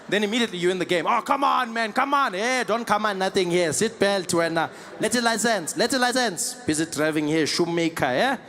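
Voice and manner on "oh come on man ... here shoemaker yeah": South African haggling. Retold or imitated. Acted haggling at South African traffic stop.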